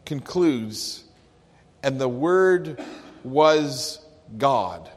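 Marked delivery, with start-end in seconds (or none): 1.8-4.9 build, then land on God; emphatic reading. Shown as a demonstration. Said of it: "Verse one concludes".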